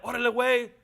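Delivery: lightly voiced cholo cousin; a hint of a barrio cousin; Chicano slang. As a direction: toss it off like his homeboy cousins. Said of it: "my cousins say stuff like".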